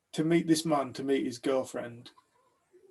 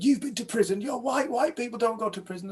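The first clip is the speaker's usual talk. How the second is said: high-pitched incredulous retort; astounded; 9 semitones higher than usual. Retold or imitated. Man told of white prisoners, astounded. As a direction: imitate someone who cannot believe it. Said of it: "he was astounded when I said".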